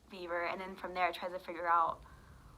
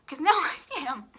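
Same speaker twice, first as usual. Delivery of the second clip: high, loud mock threat with a laugh; laughing retort; 8 semitones higher, 8 dB louder, faster than usual. Patient telling doctor she will freak out, laughingly worked up. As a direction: laugh through the heated comeback. Punchline of the retold quarrel.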